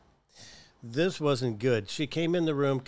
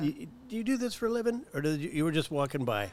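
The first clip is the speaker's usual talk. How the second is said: sarcastic jab; 3 semitones higher, faster than usual. Retold or imitated. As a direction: needle the nurse with mock surprise.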